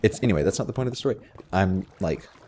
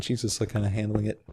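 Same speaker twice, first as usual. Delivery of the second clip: ordinary talk, nothing marked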